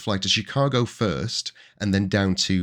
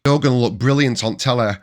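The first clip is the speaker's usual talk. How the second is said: broad Yorkshire, louder and a little higher; thick Yorkshire accent; 4 semitones higher, 7 dB louder than usual. Retold or imitated. Teen telling the tourist rep she'll look great, thick Yorkshire accent. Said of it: "in my thick Yorkshire accent".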